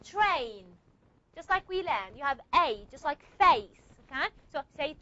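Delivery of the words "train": train with a puff of air after the t; aspirated train. Shown as a demonstration. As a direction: breathe hard on the t of train. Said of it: "How do you pronounce it?".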